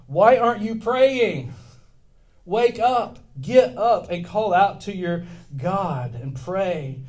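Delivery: loud, high urgent yell to wake him; a ship captain yelling at a sleeper; angry shout. Acted.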